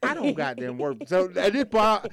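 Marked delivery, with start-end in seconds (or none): 0.0-1.0 lower, softer retold protest; calm, low-key correction; trying to be respectful. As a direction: keep it restrained with an upset customer. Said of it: "I'm still trying to be respectful".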